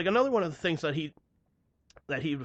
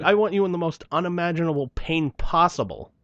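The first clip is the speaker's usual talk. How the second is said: laughing; 4 semitones higher, 6 dB louder than usual. Real, not acted. Laughing through the rant.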